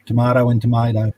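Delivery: first tomato with "mah", second tomato with "may"; two pronunciations. Shown as a demonstration. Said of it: "potato and potato".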